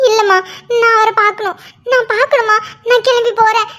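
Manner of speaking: choked-up crying no; tearful plea. Acted. Daughter pleads to see husband. (அழுகையுடன் கெஞ்சல்)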